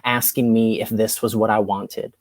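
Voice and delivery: measured spoken word poem; poetry reading. Acted. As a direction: read it like a slam poet. Reads her poem aloud.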